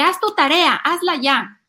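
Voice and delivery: loud, high mock nagging mom; bossy order. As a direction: command the child impatiently. Orden que no conviene dar. (orden de mamá regañona, fuerte)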